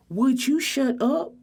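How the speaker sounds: irritated scold; exasperated. Acted. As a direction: hiss it out annoyed. Scolding friend mid-call.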